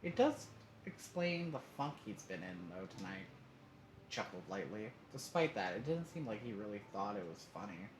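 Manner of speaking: puzzled, light father; worried but friendly dad; concerned dad voice. Acted.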